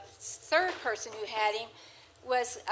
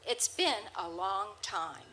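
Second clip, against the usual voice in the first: slow, lightly voiced parrot greeting; drawn-out bird voice, a touch wistful; 2 semitones lower, 4 dB quieter, slower than usual. Blanca greeting Marge after years, slow lightly voiced parrot. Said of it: "the next thing he said is".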